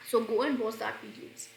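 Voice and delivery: slow, careful read of the sentence; slow dictation. Shown as a demonstration. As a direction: read it out word by word for students. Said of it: "slow reading".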